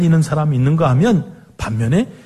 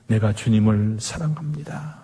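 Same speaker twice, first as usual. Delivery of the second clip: hushed whisper, lower and much softer; desperate whispered confession; 7 semitones lower, 5 dB quieter than usual. Acted. Peter desperately confessing love to the Lord, whispered. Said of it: "처절하게 고백합니다".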